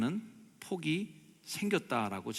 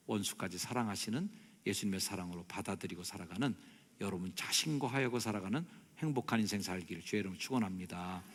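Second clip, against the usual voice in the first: normal talking voice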